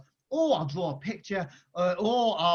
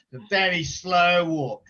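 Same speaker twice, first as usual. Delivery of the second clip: slowed down; 7 dB louder, slower than usual. Real, not acted. Describing Judy's slow walk.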